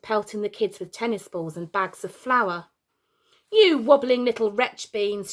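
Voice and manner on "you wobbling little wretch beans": a touch higher, louder mock rant; shouting. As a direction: hurl the silly insult at the kids. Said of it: "she shouted".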